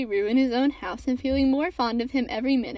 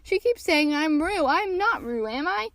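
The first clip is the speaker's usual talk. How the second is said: higher-pitched pleading; crying out; 5 semitones higher than usual. A narrator's reading. Piglet asks to be vouched for, high pleading. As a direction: plead in a raised voice. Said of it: "cried Piglet".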